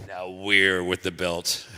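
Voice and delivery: slow, loud, high gloating; slow gloating kid. Retold or imitated. Kid bragging.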